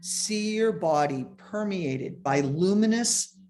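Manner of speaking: measured meditation guide, pausing between phrases; guided meditation. Real, not acted. Meditation teacher asking listeners to scan the body, guiding calmly. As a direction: lead listeners gently through the exercise.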